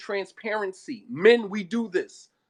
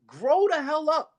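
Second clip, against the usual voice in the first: high, drawn-out rebuke; exasperated scolding; 8 semitones higher, 3 dB louder than usual. Real, not acted. Preacher scolds childish husbands, exasperated and high-pitched. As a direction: scold them, stretching it out high.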